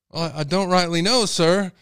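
meek butcher. Retold or imitated. Butcher answering the angry father, hesitant and a bit loud. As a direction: stammer out an apology to the angry customer.

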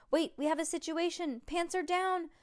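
high-pitched sudden alert; excited commentator reporting a fall; alarmed race commentary. A narrator's reading. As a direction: announce a disaster on the track.

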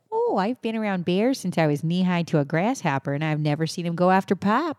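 polite, put-on Canadian accent. Shown as a demonstration. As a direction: try a courteous rural Canadian accent. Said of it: "say that in a Canadian accent".

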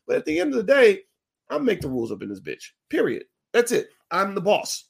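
hammed-up boss mother; mock bossy mother. Mother voiced laying down rules.

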